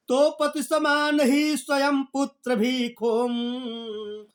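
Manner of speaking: slow, sung-out poem line; slow chanted poetry reading; verse recitation. Acted.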